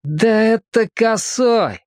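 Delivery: a hint of disdain for a petty thief; squeamish disgust. A narrator's reading. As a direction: drag it out with contempt. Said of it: "брезгливо сказал".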